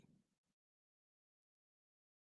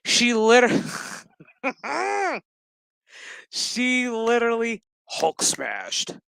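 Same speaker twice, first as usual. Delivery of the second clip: high, loud laughing delivery; 6 semitones higher, 3 dB louder than usual. Real, not acted. Reviewer laughing at She-Hulk scene, laughing. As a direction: crack up as you say it.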